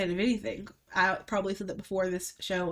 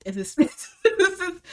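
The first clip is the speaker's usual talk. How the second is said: mock shop girl; 10 semitones higher, 5 dB louder, slower than usual. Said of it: "the girl was like".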